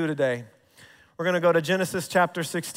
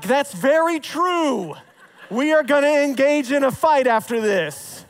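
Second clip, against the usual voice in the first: laughing; 6 semitones higher than usual. Retold or imitated. Dad playing along laughing.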